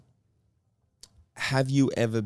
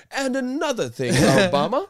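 put-on much higher, laughing, cranky old man; mock old man rant; 12 semitones higher, 6 dB louder than usual. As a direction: ham up a grumpy old man scolding. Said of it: "talking over him like".

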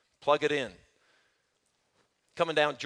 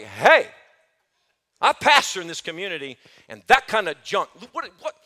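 louder retold "Hey, I pastor in this community"; loud confrontation; 6 dB louder than usual. Pastor reenacts confronting dealers, with a loud mock challenge. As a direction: call it out to the drug dealers with force. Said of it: "but it was like".

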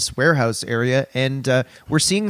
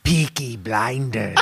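slow, laughing attempt at a Birmingham accent; badly faked Birmingham accent; mock Peaky Blinders accent; 3 semitones lower, slower than usual. Co-host jokingly tries a Birmingham accent. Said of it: "I'm so bad at that accent".

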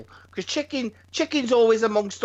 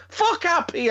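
grumpy retort; 9 semitones higher than usual. Retold or imitated. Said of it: "I said".

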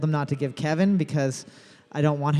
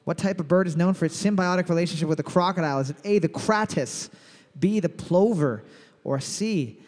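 quiz host read; 2 semitones higher than usual. Acted. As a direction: announce it like a pub trivia host. Reads trivia question as host.

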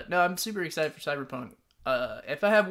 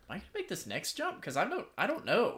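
mock nervous doubt; 6 semitones higher than usual. Player doubting a first-person parkour jump, mock nervousness. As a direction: ask yourself in a small, high voice. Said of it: "But then you're like".

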